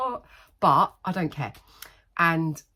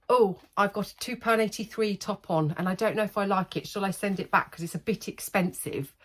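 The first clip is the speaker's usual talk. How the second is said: mock imitation; 4 semitones higher than usual. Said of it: "they come in and they went".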